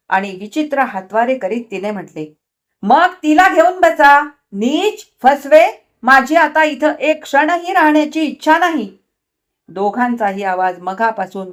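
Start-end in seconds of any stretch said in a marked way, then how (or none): 2.8-9.0 high, loud screaming; furious scream. A narrator's reading. Wife screams she will leave, furious.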